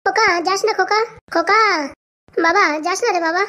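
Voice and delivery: lightly acted crying plea; tearful pleading. Mother begs her son not to go, tearfully pleading. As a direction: call after a departing child, a touch tearful. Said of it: "আরে গিন্নি, কান্না করো না".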